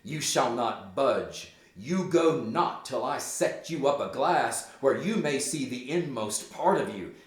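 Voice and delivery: firm acted order, loud on the opening; mildly aggressive. Hamlet approaches Gertrude to push her down, mildly aggressive. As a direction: press her with measured emphasis. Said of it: "in a rather aggressive manner".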